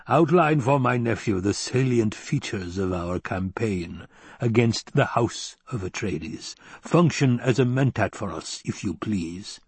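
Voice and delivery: lightly voiced Baron, slow and deliberate; a hint of an imperious uncle; commanding Baron. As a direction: draw the order out slowly, as a lordly villain. Voices the Baron giving orders.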